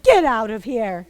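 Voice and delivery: bossy order. Acted. Guardian chasing off the cow, loud and slow. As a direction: throw the cow out. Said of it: "But Mabuya said".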